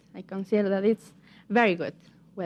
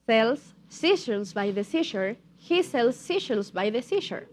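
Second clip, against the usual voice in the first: tongue twister a touch quicker; a little faster. Shown as a demonstration. Teacher repeats the tongue twister for students, a little faster. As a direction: pick it up slightly, still careful. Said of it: "but now a little bit faster".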